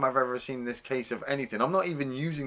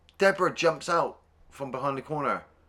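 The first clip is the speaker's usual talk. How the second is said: ordinary talk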